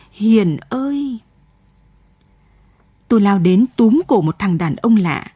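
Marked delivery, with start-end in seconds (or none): 0.1-1.2 a long, distant-sounding cry of Hiền; slow ghostly call. Acted. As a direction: stretch out the call like an echo over the river. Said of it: "Tiếng kêu của chị Mãng vẫn vang lên". (tiếng kêu vọng xa, kéo dài)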